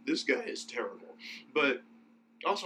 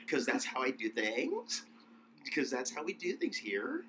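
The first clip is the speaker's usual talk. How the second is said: put-on valley girl uptalk; 3 dB quieter than usual. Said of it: "every sentence ends in a question".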